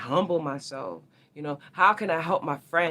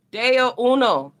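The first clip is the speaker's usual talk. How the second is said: mock proclamation; 8 semitones higher, 9 dB louder, slower than usual. Real, not acted. Exaggerated slow high-loud word.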